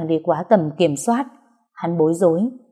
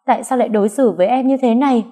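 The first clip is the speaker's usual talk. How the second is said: heartbroken; 5 semitones higher, faster than usual. Acted. Rejected girl sobbing reproach.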